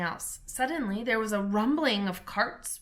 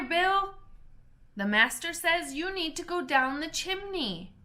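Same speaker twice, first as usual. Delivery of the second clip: higher, hurried crowd of busy animals; excited animal workers; 4 semitones higher than usual. Acted. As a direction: call out like fussing little creatures. Animals arguing over chimney.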